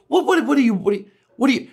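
high, sputtering what what what; sputtering anger. Retold or imitated. Comic angry at a heckler, sputtering in high pitch. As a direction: sputter at them, too mad for words. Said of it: "I learned when I get angry, I just go".

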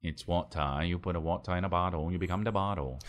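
low, soft mock Jamaican accent. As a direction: quote Bruce Lee in Jamaican accent. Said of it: "like your Jamaican accent".

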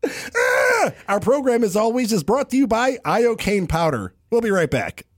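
high announcer pitch; high mock ad read; radio sponsor read. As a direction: sell it like a morning DJ.

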